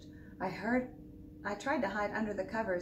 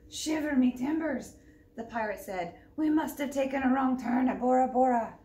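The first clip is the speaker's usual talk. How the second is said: pirate voice; 3 semitones higher, 5 dB louder than usual. Acted. Pirate speaks.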